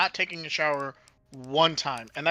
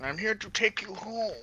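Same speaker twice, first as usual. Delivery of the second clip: mock angel voice; 5 semitones higher, 5 dB quieter than usual. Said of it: "And it's like".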